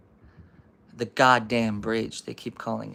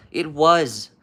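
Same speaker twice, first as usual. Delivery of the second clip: loud, higher insistence; insistent protest; 4 semitones higher, 10 dB louder than usual. Acted. Andy defending his story to Bertie, loud insistence. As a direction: protest loudly that it's true.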